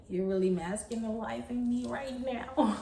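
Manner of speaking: lightly voiced needy man, drawn out slowly. Teasing a needy man to her audience, drawn-out mock voice. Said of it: "Is that a word?".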